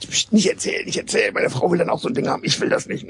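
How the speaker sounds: secretive hushed whisper, half joking. Pretend. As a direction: hush him so the wife won't hear. Mock hushing a secret.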